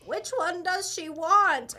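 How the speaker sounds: drawn-out sweet grandma asking; hint of a stereotypical grandma. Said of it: "in the stereotypical grandma voice".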